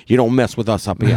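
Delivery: lightly put-on East Coast accent; a half-hearted go at an East Coast accent; poor East Coast accent. Co-host mocking a fancy East Coast lawyer, poor East Coast accent. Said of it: "that was a poor accent".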